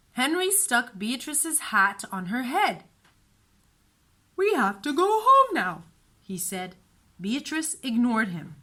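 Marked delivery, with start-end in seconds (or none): 4.3-5.8 firm big brother. A narrator's reading. Henry voiced, urging.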